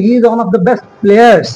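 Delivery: very slow, each word spelled out like a teacher; slow model sentence. Shown as a demonstration. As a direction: say it slowly so learners catch the grammar. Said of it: "আমরা বলি".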